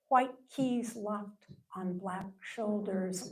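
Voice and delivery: measured poem recital with weighted pauses; poetry reading. Acted. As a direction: read it as verse, phrase by phrase, letting each image stand. Reads own poem aloud.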